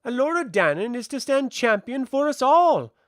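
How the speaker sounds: slight extra weight on "all", voice high and loud; emphasis on last word. A narrator's reading. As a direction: lean a little on the final "all". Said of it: "slight emphasis on the last word".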